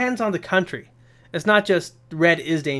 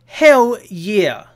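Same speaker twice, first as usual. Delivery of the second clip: louder, higher hell-yeah burst; pumped; 4 semitones higher, 7 dB louder than usual. Real, not acted. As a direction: cheer it out, really pumped up. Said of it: "I'm getting pumped".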